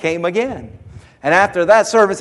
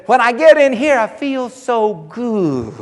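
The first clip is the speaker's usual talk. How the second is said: higher, slow and dreamy; imitating the man; 5 semitones higher than usual. Big man telling the preacher how church feels, dreamy. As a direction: savour each word like the happy churchgoer.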